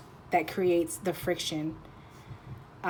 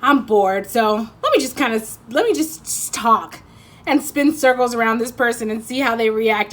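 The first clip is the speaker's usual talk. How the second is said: bored troublemaker; 2 semitones higher, 6 dB louder than usual. Retold or imitated. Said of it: "you're like".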